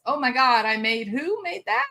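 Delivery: high amazed rise. Retold or imitated. Grandma marveling at the new grandbaby, high and amazed. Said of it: "when our babies have babies, it's".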